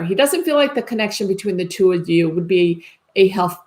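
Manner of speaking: talking through hiccups; words broken by hiccups. Real, not acted. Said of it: "excuse me, I have the hiccups".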